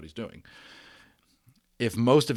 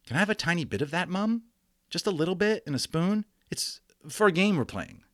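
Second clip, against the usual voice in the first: put-on high, fast, sweet-asking child voice; high eager child voice asking mum a favour; wheedling boy; 9 semitones higher than usual. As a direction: coax a spoonful out of mum.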